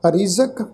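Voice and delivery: ਰਿਜ਼ਕ with a buzzed z; dotted z sound. Shown as a demonstration. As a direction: say ਰਿਜ਼ਕ as rizak, not rijak. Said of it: "ਜੱਜੇ ਪੈਰ ਬਿੰਦੀ ਨਾਲ".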